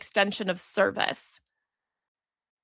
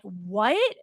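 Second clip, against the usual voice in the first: put-on incredulous old self; 3 semitones higher than usual. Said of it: "the old me would have been like".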